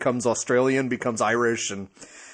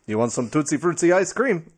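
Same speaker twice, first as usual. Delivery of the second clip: lightly put-on Italian accent; mock Italian accent; 3 semitones higher than usual. Co-host clowning as an ice cream seller, mock Italian accent. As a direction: joke in a rough Italian accent. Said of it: "That's a, an Italian".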